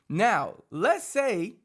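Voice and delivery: usual speaking voice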